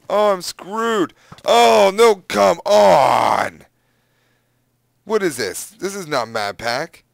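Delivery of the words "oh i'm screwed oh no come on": loud, high outburst of frustration; frustrated shout. Real, not acted. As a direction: yell at the game. Losing the fight.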